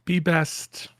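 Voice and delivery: whispered, "Be best" in a lightly voiced Melania; Melania impression. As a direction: breathe it out like Melania, barely voiced. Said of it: "That's my best Melania impression".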